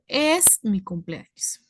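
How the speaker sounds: slow, deliberate corrected phrase; versión corregida. Shown as a demonstration. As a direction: give the natural version slowly. (frase corregida, lenta y pausada)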